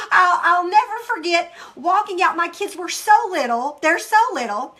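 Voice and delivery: loud, emotional, close to real tears; tearful, voice breaking. Real, not acted. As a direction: let the voice crack as the feeling wells up. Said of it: "I'm an emotional person".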